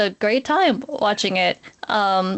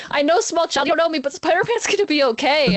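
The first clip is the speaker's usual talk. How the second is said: reassuring; 6 semitones higher, faster than usual. Retold or imitated. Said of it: "I wanted to be like".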